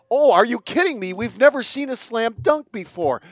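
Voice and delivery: mock a hyped commentator over a dunk; mock excited announcer. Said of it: "the first one example I gave there".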